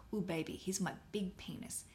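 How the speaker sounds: soft, whispered come-on; seductive mock whisper. Mimes a seductive picture sender.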